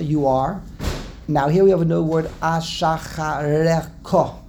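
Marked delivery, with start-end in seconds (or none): 2.4-4.4 Ashachareko said slowly, feeling through the syllables; careful pronunciation. Shown as a demonstration. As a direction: work slowly through Ashachareko as one hard word. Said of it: "That's a hard word to say".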